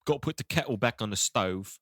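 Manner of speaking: mock British accent. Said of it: "That was really good".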